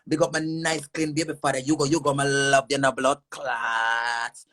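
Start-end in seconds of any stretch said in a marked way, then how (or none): 1.6-4.4 sobbing, shouting the curse out slowly; crying shout. Real, not acted. Woman cursing her rival, crying out in a slow sobbing yell. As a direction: wail it out, voice breaking into a yell.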